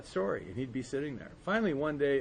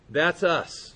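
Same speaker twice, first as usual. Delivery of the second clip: ordinary delivery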